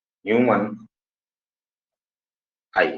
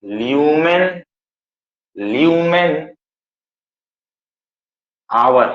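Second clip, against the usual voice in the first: ल्यूमेन stretched out slowly for writing; धीरे धीरे बोलकर लिखवाना; slow dictation; much slower than usual. Shown as a demonstration. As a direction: spell it out slowly, lumen. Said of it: "बहुत important है".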